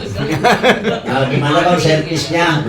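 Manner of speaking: coy wife checking on her husband, laughing; playful wife voice. Retold or imitated.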